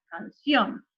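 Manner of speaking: canción with the stress on the final O; "canción" ending on a strong O. Shown as a demonstration. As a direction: say "canción" correctly, can-SIÓN. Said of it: "La O".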